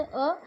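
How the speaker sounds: "अ" said short and quick; a brief, clipped-off "अ"; short vowel. Shown as a demonstration. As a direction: keep "अ" to one brief beat. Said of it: "बहुत ही कम समय में उच्चारण".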